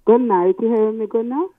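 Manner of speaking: speaking up loud down a phone line; to someone hard of hearing. Real, not acted. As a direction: raise your voice so they can hear. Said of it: "I'm not hearing you so well".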